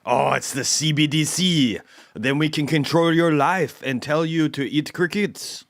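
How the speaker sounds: hammed-up villain banker gloating; mock central banker. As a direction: lampoon the banker's smug promise of control. Mocking the central bank's CBDC pitch.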